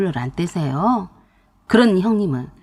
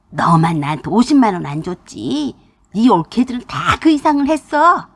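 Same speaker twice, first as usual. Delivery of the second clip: mother-in-law scolding loudly; 2 semitones higher than usual. Retold or imitated. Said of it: "큰 소리로 그러셨습니다".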